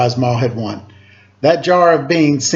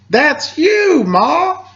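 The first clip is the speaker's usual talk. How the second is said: much higher, thrilled shout to his mother; excited cry; 13 semitones higher, much slower than usual. Acted. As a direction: burst out with joy, much higher. Boy sees mother win prize.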